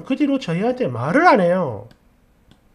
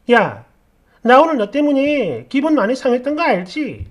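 mock accusing snap; 2 semitones higher, 4 dB louder than usual. Friend calls, accusing after wedding.

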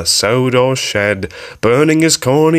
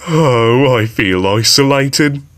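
groaning; 4 semitones higher than usual. Acted. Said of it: "groaned James".

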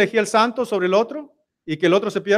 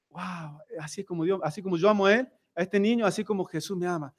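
awed murmur; 7 dB quieter than usual. Retold or imitated. Enoc asombrado piensa en su hijo.

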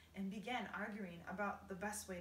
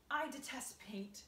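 slow, louder, higher spider lady; Miss Spider announcing; 5 semitones higher, 4 dB louder, slower than usual. Acted. Miss Spider announcing her dislike of paint, slow and loud. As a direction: declare it with slow disdain. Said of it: "Miss Spider announced".

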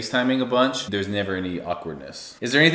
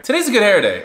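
giggly; 11 semitones higher, 8 dB louder than usual. Real, not acted. Giggly about hair.

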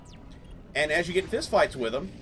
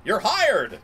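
mock triumphant; 7 semitones higher, 7 dB louder than usual. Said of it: "It's like".

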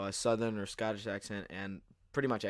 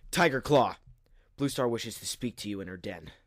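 calling out Tiger Claw; 4 dB louder than usual. Acted. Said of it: "White Storm".

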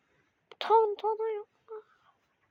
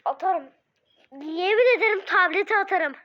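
frustrated outburst; 3 semitones higher, 5 dB louder than usual. Real, not acted. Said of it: "Vallahi kırıyordum gerçekten".

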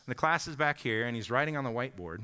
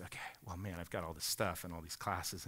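overwhelmed student; 9 semitones lower, 11 dB quieter than usual. Retold or imitated. Unloading stress on professor.

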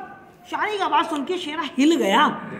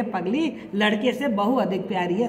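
lovingly; 5 semitones lower than usual. Retold or imitated. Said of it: "प्यार से कह रही है".

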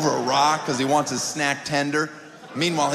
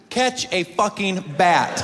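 deadpan instruction; 4 semitones higher, much slower than usual. Retold or imitated. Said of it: "First thing you have to do".

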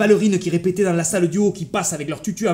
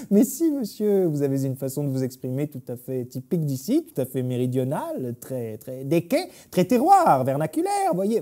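condescending director. Acted. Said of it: "le directeur, tout pincé".

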